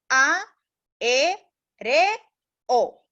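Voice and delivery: each vowel said apart with a pause between; syllable by syllable. Shown as a demonstration. Teacher spelling syllables out for pupils, slowly. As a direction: split the word into syllables, pausing after each. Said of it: "para separarlas en sílabas".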